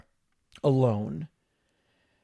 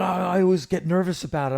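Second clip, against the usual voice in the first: impression of a singer; 6 semitones higher, 5 dB louder, faster than usual. The singer voiced again.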